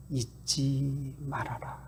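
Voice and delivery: whisper. Acted. God reminding his people not to forget, whispered. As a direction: breathe the warning almost silently. Quoting God, then a hushed line.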